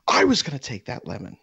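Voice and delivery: high put-on voice of an entitled shopper; imitating the woman. Woman in the grocery store claiming the lemon, imitated high. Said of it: "she's just like".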